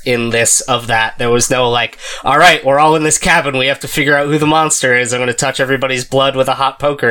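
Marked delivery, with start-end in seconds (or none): 2.2-7.1 fast, hammed-up suspicious survivor; dramatic horror character. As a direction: rush it like a panicked movie hero. Acting a tense cabin scene.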